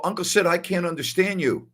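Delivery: retold protest. Retold pleading with uncle.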